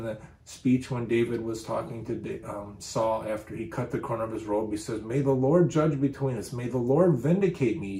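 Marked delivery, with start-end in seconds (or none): 5.0-8.0 raised, pressing plea; earnest appeal. Acted. David appealing to Saul after cutting his robe, earnest appeal. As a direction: plead your case, pitched up a little.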